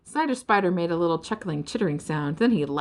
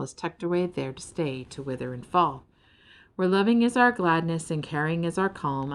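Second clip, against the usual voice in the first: gentle recited poem. Acted. Belinda recites her dream.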